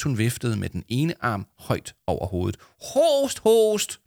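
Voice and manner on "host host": high, drawn-out fake cough words; hammed-up, high-pitched interruption; loud interruption. A narrator's reading. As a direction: call out a pretend cough for attention. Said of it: "sagde Jama højt".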